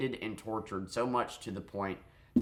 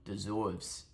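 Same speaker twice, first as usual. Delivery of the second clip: "Deserves" in a put-on Boston accent; mock Boston pronunciation; 5 dB quieter than usual. Shown as a demonstration. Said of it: "Getting that Boston accent out there".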